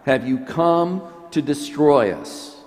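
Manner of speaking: repeating the demon's line as a light echo. Acted. Priest repeating the demon's last line, a lightly voiced demon. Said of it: "in particular that last line".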